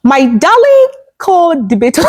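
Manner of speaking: high, theatrical schoolgirl debate voice with a tearful catch; mock-tearful school debate opener; secondary school debater. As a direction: ham up a pompous school debater addressing her opponent. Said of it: "let me sound like how we used to sound when we're in secondary school".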